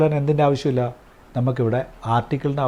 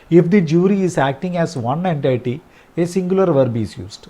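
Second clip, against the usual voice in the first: slow dictation; 4 semitones higher, much slower than usual. Shown as a demonstration. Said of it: "rule read out slowly".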